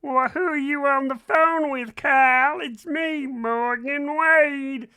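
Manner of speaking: high, loud drawn-out put-on voice; a singer. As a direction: butt in loudly from the background, hammed-up. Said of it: "all of a sudden in the background we were like".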